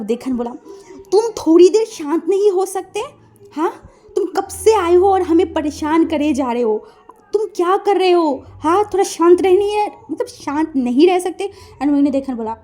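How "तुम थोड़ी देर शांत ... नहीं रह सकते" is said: irritated scolding, raised pitch; angry policeman. Acted. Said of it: "वो अब गुस्से में आया". (गुस्से में डांटता पुलिसवाला)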